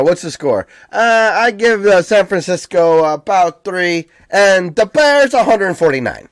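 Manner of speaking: loud, high Chicago superfan voice; Chicago super fans. Retold or imitated. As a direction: bellow predictions in a Chicago accent. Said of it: "They're just these super fans".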